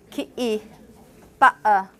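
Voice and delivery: kitty and ba-, uh with a throat catch and no N; East London schwa ending. Shown as a demonstration. Teacher demonstrates London contrast, kitty with glottal stop. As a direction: cut the T of kitty to a glottal stop, end on a bare vowel. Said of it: "syllabic nasal into just a schwa".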